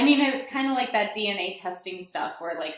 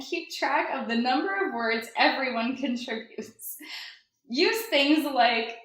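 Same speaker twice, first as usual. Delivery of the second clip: ad read; 6 semitones higher than usual. Shown as a demonstration. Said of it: "Read it again".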